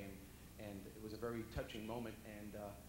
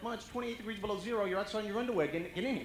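loud exasperated yell; 10 semitones higher, 10 dB louder than usual. Retold or imitated. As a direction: yell it much higher and louder. Son yelling at mom outside.

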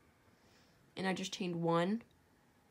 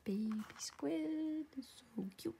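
whispering; 7 semitones higher, 5 dB quieter than usual. Real, not acted. Whispering aside, someone nearby.

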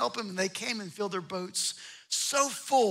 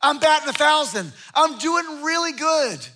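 smug self-satisfaction; 5 semitones higher, 7 dB louder than usual. Retold or imitated. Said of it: "He's like".

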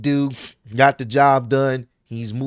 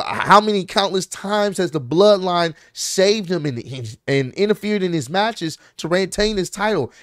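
worked-up, indignant retelling of a rant; higher-pitched, impassioned protest; passionate rant; 3 semitones higher than usual. Retold or imitated. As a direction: argue the case with rising passion. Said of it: "he got really passionate about it".

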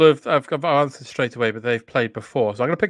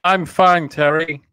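put-on English accent; 3 semitones higher than usual. John Candy answers Terry in a mild English accent. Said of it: "trying out an English accent there".

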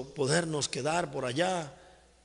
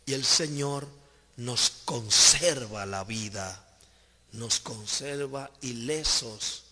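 emphatic, deliberate sermon delivery; fervent preaching. Real, not acted. Preacher assuring the faithful of God's protection, fervent and emphatic.

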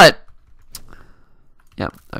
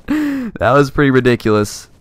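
usual speaking voice

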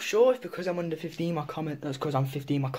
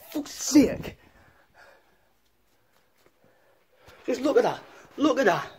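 higher, exasperated Geordie gamer; hammed-up Geordie rant; Geordie accent; 5 semitones higher, 3 dB louder than usual. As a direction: rage at the game like a Geordie lad.

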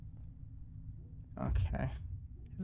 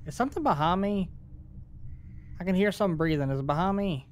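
scared horror game streamer; 5 semitones higher, faster than usual. Real, not acted. Hears breathing in horror game.

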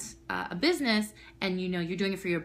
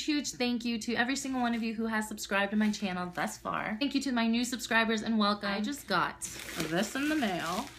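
ordinary talk

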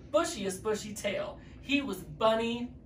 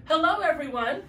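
high, louder joyful hello; happy call; 9 semitones higher, 5 dB louder than usual. A narrator's reading. Bunnies greeting all the garden animals, joyful call.

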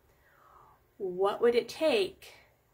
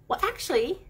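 breathy high whisper, half teasing; 8 semitones higher, 3 dB louder than usual. Real, not acted. Talking to the viewer as a sly whispered aside.

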